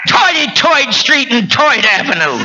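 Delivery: a light imitation of a Brooklyn accent; mock Brooklyn accent on the street names. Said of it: "They talk like that".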